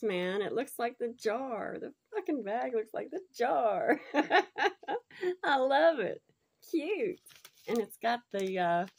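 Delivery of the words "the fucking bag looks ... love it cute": high, louder, laughing through it; laughing delight. Real, not acted. Amused by the bag matching the jar, laughing loudly. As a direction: crack up with joy.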